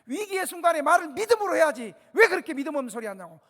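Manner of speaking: loud, high, forceful scolding; a pastor loudly rebuking a doubting relative at the bedside; bold rebuke. Retold or imitated. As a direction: rebuke her with bold faith, full voice. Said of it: "내가 이렇게 꾸짖었어, 진짜 이 목소리로".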